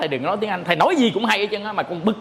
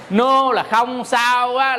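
slow explaining; 3 semitones higher, much slower than usual. Shown as a demonstration. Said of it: "mình dịch là no star where".

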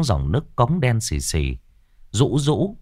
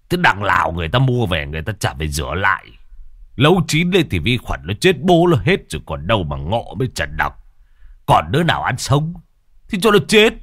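father scoffing, rising to a mock yell; father mocking his son's fears, coarse and jokey; coarse joking father; 2 semitones lower than usual. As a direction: crude dad laughing off the danger. Father's crude joking rant.

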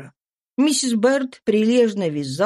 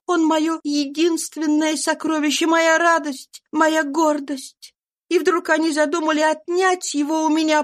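higher, pleading voice of a mother who fled; grieving fugitive mother; 9 semitones higher than usual. A narrator's reading. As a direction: pour out a mother's grief, pitched up. Eliza tells her story. (скорбящая мать, голос выше, с мольбой)

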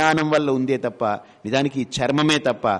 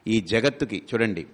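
ordinary delivery

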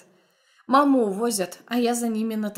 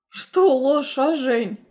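mocking taunt, a little louder; smirking; 3 semitones higher, 4 dB louder, much slower than usual. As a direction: sneer the question at her. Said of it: "усмехаясь".

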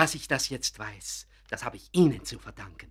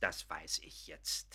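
whispered, slow resignation; 7 semitones lower, 15 dB quieter, slower than usual. Acted. Painter admits his work is no art, a slow whisper. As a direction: let it fall away to a whisper.

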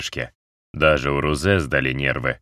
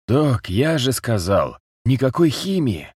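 battered man voice; 7 semitones higher than usual. A narrator's reading. Battered man refuses painkillers.

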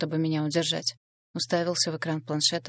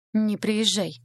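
blunt; 4 semitones higher, 4 dB louder, much slower than usual. A narrator's reading. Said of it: "слишком грубо сказал я".

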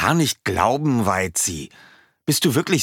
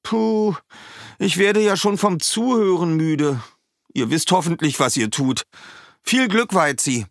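higher, worn-out puff then well-wishing; weary sigh; 11 semitones higher than usual. A narrator's reading. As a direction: bird pretending exhaustion from all the talk. Schwalbe tired from listening.

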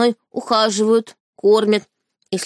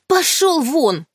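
slow, higher shout; 7 semitones higher, much slower than usual. A narrator's reading. Heroine screams at the beast to leave, slow and high. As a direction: drive him out with a drawn-out yell. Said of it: "крикнула".

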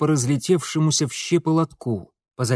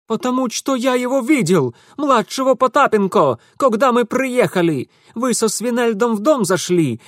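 put-on high, louder agitated young man; Ingvar explaining; 8 semitones higher, 4 dB louder than usual. A narrator's reading. Ingvar tells Mitya what he saw, high and agitated. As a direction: tell it in an indignant rush.

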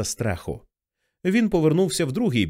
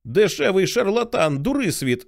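angry shout; 6 semitones higher than usual. Acted. Dussault screams at Johnny, calling him a fraud, angry shout. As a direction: hurl the insult at the fraud. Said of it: "закричав на нього Дюссо".

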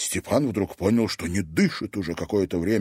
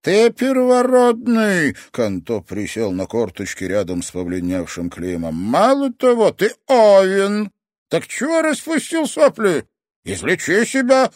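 scolding sensei; 11 semitones higher, 6 dB louder than usual. Acted. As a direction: shame him into action.

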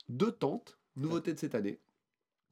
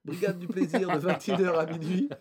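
put-on English accent; 3 semitones higher, 6 dB louder than usual. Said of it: "Pourquoi je mets un accent anglais?".

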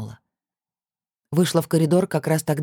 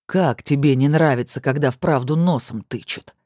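snarled retort. Acted. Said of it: "рявкнул он".

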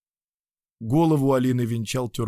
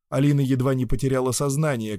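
plain reading voice

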